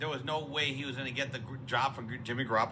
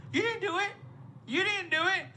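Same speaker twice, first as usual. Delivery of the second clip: pitched way up, incredulous complaint; exasperated high yelp; 14 semitones higher than usual. Real, not acted. Fan scolding a player in a high incredulous squeal.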